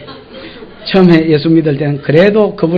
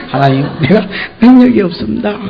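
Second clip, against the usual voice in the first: laughing confession. Acted. Moses confesses weakness, laughing.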